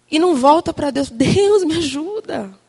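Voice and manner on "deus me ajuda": pleading prayer. Acted. Woman turning back to God in anger, pleading. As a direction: call up to God for help. Acted cry to God for help.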